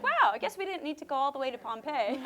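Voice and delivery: laughing through a mock-wowed remark; amused disbelief. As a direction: chuckle it out as if caught out. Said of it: "And you're like".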